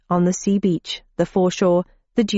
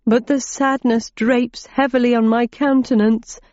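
whimpering; 4 semitones higher than usual. Acted. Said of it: "he whimpered".

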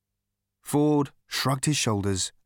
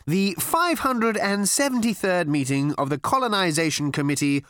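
genial chairman's announcement, pitched up; pleasant; 7 semitones higher than usual. A narrator's reading. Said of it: "he said pleasantly".

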